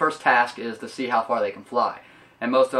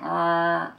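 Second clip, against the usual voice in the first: short mock honk from the throat, pitched up; horn-like noise; 6 semitones higher than usual. Imitating baby Rudolph's glowing nose, mock horn honk. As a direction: imitate a foghorn bleat. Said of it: "makes this weird-ass noise".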